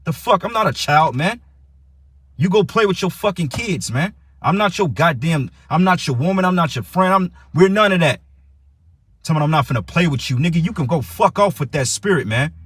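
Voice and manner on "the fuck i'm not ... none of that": higher, heated and insistent; angry rant. Real, not acted. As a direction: tell him off, pitch climbing. Ranting at disrespectful caller.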